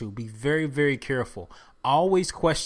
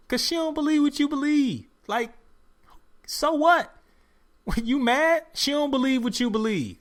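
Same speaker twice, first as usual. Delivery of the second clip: much higher, heated and incredulous; worked-up rant; 7 semitones higher than usual. Real, not acted. Podcaster defending a rapper against the host, heated. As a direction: fire back at the critics, riled up.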